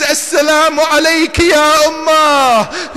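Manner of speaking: grieving call. Acted. Zainab calling to her mother from afar, grieving. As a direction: cry the greeting out toward Medina.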